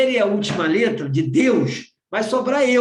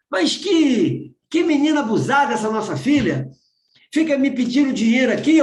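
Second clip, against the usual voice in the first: fast, raised, exasperated grumbling; indignant reading; 3 semitones higher than usual. Retold or imitated. Father reading daughter's letter aloud, indignant and fast. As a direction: read it like an outraged father. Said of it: "mas ela não tá falando desse jeito que você falou".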